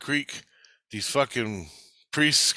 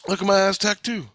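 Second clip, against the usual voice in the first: showing off; 8 semitones higher, 4 dB louder, faster than usual. Retold or imitated. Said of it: "I'm going".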